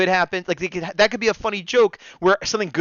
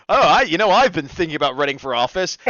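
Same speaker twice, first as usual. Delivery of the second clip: a hint of a character piping up; Steele; 5 dB louder than usual. Host retelling Steele's line about office, lightly acted. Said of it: "Steele was like".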